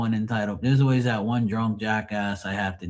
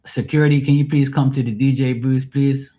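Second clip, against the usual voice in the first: mic announcement; 3 semitones higher, 4 dB louder than usual. Retold or imitated. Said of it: "go on the mic and say".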